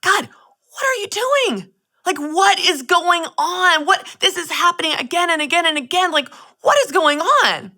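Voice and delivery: a pleading wail to God, partly re-lived; crying out to God. Retold or imitated. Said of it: "crying out to God and saying".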